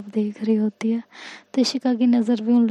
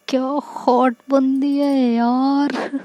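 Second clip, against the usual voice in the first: admiring schoolgirl; 2 semitones higher, much slower than usual. Acted.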